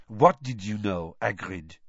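low purring French voice. Acted. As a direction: purr the question. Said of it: "a distinct purr in her low voice".

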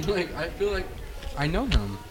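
talking while chewing; words round a bite of food; mouth full. Real, not acted. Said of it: "sorry for speaking with my mouth full".

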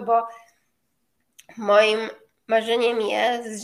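usual speaking voice

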